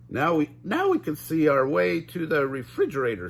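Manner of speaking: lightly voiced Shaggy, relieved; mild Shaggy relief. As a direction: find the way to food. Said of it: "Shaggy said".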